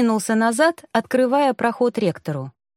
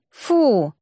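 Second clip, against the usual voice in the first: disgusted ugh. A narrator's reading. Rector recalling the cockroach, disgusted exclamation. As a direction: spit out the disgust.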